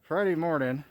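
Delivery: muffled through a face mask. Real, not acted. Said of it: "Excuse my muffled voice".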